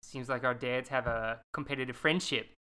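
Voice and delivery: put-on lightly done Australian accent as Gemma. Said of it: "let me get into my Australian accent".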